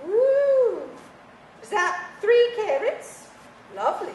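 lightly voiced grand old lady; a hint of a teasing dowager; frail withering duchess. Voices the stuffed toy.

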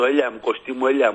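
mock Athenian caller, "έλα" turned into "έλια"; προφορά με ελαφρύ λάμδα. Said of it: "πιο ελαφρύ λάμδα αυτός". (μίμηση νότιας προφοράς με μαλακό λάμδα)

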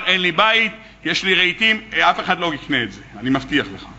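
a hint of a meek, low-voiced debtor pleading; mildly hangdog debtor explaining he has nothing. Poor employee pleads with boss.

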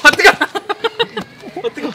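yelping at the heat; flinching from something hot; hot to touch. Real, not acted. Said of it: "엄청 뜨거운데".

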